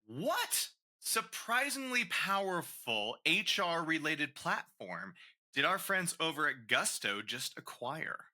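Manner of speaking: slow, drawn-out game-show question; slow mock game-show question; quiz question. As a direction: read it like a quiz host building suspense.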